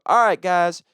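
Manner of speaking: high, loud announcer voice; mock show introduction. Host introducing two comics to the crowd, mock announcer.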